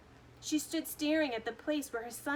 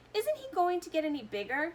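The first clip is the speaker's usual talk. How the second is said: higher, loud dismayed shout; 7 semitones higher, 4 dB louder than usual. A narrator's reading. Father dismayed at his tiny son, loud shout. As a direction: shout it at the screen. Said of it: "shouted Mister T V".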